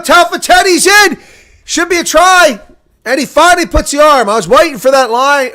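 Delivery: building to a full-voiced, high-pitched shout; excited try call. Real, not acted. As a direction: roar the score as it happens.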